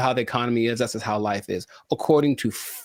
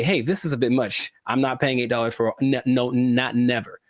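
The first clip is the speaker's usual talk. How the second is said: pretend customer. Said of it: "So you can say".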